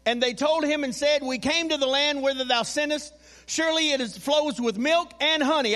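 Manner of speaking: projected, sustained reading from the pulpit; scripture reading. Acted. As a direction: read the Bible verse out to the congregation. Reads scripture aloud to congregation.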